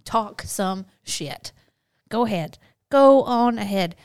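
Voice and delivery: loud, high, teasing dare to talk back; mock taunt. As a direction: egg him on with a cocky shout. Daring husband to talk back.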